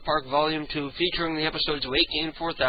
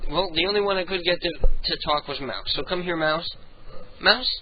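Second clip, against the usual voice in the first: ordinary delivery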